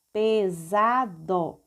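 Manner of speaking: "Pesado" slowly as pe, sa, do; slow teacher's reading of "Pesado"; syllable by syllable. Shown as a demonstration. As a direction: sound out "Pesado" in three separate beats. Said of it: "vamos ler passo a passo".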